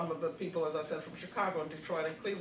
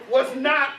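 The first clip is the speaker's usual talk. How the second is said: slow, much louder words broken by laughter; laughing; 3 semitones higher, 9 dB louder, much slower than usual. Real, not acted. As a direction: speak slowly while laughing. Laughing at tourists joke.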